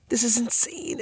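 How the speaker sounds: put-on high, breathless girl voice; stunned girl. A narrator's reading. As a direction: marvel nervously. Ellie whispering to jake.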